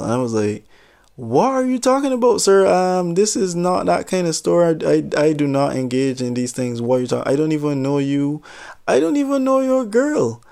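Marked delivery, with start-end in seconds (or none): 1.2-10.4 high, overly polite clerk voice; prim store clerk. Retold or imitated. Clerk politely denying the jealous customer, pitched high. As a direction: play the prissy, proper shop clerk.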